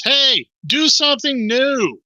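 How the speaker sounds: high, drawn-out heckle from the crowd; shouted-out audience demand; calling out. Acted. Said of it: "One of them calls out".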